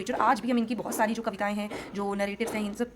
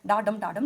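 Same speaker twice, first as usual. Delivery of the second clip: "डा" light, "डम" stressed, twice over; even da-DUM demo on "डा डम"; unstressed-stressed beat; 3 semitones lower, slower than usual. Shown as a demonstration. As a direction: tap out "डा डम" as an iambic rhythm. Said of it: "और फिर stressed डम".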